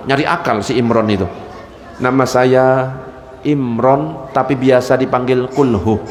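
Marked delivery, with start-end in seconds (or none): 2.0-6.0 a lower, bashful groom introducing himself; groom's answer. Acted. Nervous groom to his future father-in-law, low and bashful. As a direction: mumble your name shyly to the bride's father.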